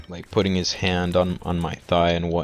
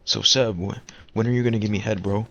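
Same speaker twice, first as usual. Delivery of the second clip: fast, teasing voice of a pushy friend; hammed-up teasing buddy; mocking friend; 3 semitones higher, faster than usual. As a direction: rattle off the come-on like a joking buddy. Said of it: "He was like".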